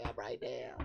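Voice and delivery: breathy whisper to the glass; soft whispered aside to the mead. Pretend. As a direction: whisper it close and intimate. Whispered to the drink.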